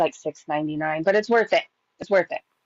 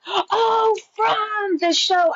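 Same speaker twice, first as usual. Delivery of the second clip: sudden high gasp of realisation; the penny drops, blurt it out; surprised; 12 semitones higher, much slower than usual. Real, not acted. Suddenly realises which show.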